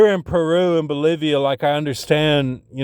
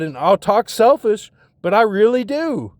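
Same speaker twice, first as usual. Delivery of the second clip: higher, insistent self-justifying plea; agitated plea; 7 semitones higher than usual. Retold or imitated. Arguing to her that he deserves his own place, agitated. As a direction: plead your case, pitched up.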